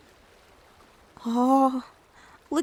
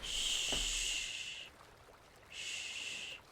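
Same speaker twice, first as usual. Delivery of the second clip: put-on whispered shushing to calm a child; comforting whispered shh; soothing shush; 19 dB quieter than usual. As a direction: hush them gently, all breath. Hushing a crying, hurt child.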